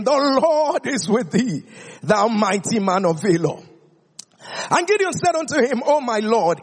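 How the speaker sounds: measured, formal Bible reading; scripture reading. Acted. Preacher reading the Bible to the church, measured and formal. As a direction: read the passage aloud to the congregation.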